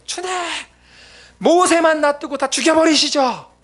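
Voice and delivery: loud, high, slow furious complaint to God; angry ranting prayer. Retold or imitated. Pastor retelling his angry prayer to God, furious rant. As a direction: rail at God in a rage. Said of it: "욕을 하면서 막 던져버리고".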